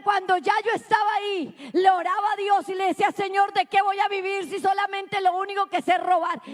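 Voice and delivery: prédica testimonial. Real, not acted. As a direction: tell it as a pleading testimony from the pulpit. Preaches testimony at force. (testimonio predicado con fervor)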